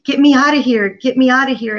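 mild reenacted begging, pushing on get me out; crying out to God. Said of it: "I started to just cry out to God".

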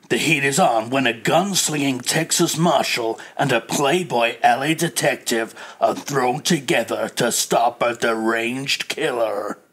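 crime-story blurb read, slowing at the end; trailer voiceover. Acted. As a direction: announce it like a thriller trailer.

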